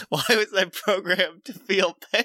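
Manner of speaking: a lightly voiced robot, puzzled and hurt; a mild mock lament from the fallen robot; pained robot. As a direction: ask it like a broken machine in mock anguish. Sparking robot cries out.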